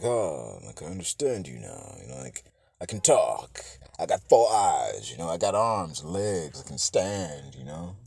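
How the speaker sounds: lightly voiced monster. Deviant showing off its new body, lightly voiced low monster. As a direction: lightly play a newly talking creature, low voice. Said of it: "he's like".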